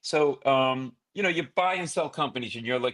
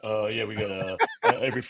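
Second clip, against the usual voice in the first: put-on entitled college kid; 4 semitones lower, faster than usual. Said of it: "entitled asshole like".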